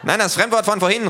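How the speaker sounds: high, loud impatient shout; little thug yells impatiently; calling loudly. A narrator's reading. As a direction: shout the correction. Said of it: "ruft der Kleine".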